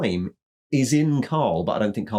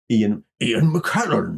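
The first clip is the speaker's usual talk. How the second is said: Ian McKellen voice; slower than usual. Retold or imitated. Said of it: "sounds like Gandalf".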